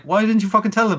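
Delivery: hammed-up scolding ghost; lightly voiced annoyed ghost; mock exasperated Yuki Onna. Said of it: "it's like".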